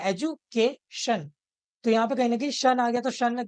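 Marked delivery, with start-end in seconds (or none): 0.0-1.3 एजुकेशन broken up as e-ju-KAY-shun, slowly; stress on second-last syllable. Shown as a demonstration. Teacher showing students the stressed के in एजुकेशन, syllable by syllable. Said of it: "ये जो के है, इस पे हम देते हैं".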